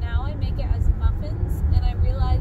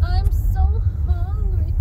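mock whine; 7 semitones higher, 3 dB louder, much slower than usual. Real, not acted. Whining to pet.

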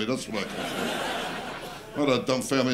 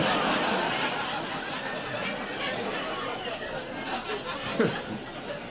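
maniacal cackle; 6 dB quieter than usual. Acted. Mock maniac laugh after axe.

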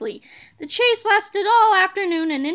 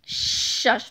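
hushing; 5 semitones lower than usual. A narrator's reading. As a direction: hush someone under your breath. Big Tippy hushes Tiny Tippy.

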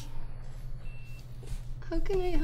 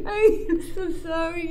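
tearful apology. Acted. Mother apologizes in tears.

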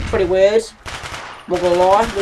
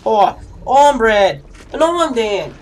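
Aussie advert impression; 3 semitones higher, 4 dB louder, slower than usual. Gamer mimicking the Foster's advert, mock Aussie accent. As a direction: drawl it slowly like an Aussie ad. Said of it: "when you watch the Foster's advert".

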